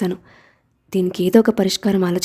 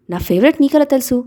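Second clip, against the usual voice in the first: suspicious; 5 semitones higher than usual. Acted. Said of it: "అనుమానంగా చూస్తున్న".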